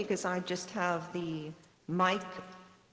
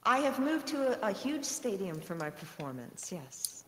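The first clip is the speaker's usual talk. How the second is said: big hall echo; 4 dB louder than usual. Real, not acted. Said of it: "Are you in a gigantic stadium?".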